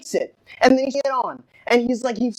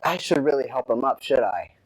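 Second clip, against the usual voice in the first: low, soft thinking aloud; muted deliberation; 11 semitones lower, 5 dB quieter than usual. Retold or imitated. Driver alone realizing he hit someone, muted deliberation. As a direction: drop down low, like a private worried thought.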